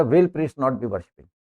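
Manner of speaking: slow, spaced-out dictation pace; slow teacher dictation. Shown as a demonstration. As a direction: give each word of will priest not be worshipping room for students to write. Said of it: "बस ये रहा".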